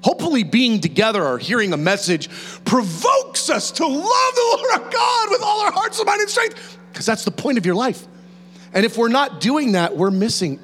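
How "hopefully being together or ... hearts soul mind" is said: normal talking voice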